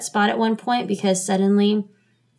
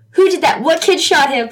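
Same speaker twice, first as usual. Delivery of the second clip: much higher, louder baffled questions; retold astonishment; 7 semitones higher, 7 dB louder than usual. Replaying her confusion over who fired, loud and astonished. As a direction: fire off the questions in shock. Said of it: "I was like".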